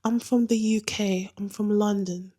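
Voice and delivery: slightly put-on British accent; best British accent. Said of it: "I put on my best British accent".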